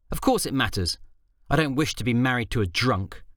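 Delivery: a hint of a stern wife; scolding wife. Faye scolding husband.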